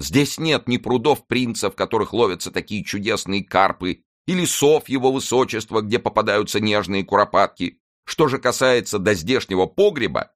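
high-pitched plaintive complaint; sad. A narrator's reading. Mousqueton laments the inn's food and cellar, plaintively sad. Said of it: "грустно проговорил Мушкетон".

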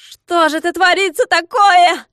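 very high, loud squeal of pain. A narrator's reading. Klops caught in a trap, pained squeal. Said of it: "завизжал он, корчась от боли".

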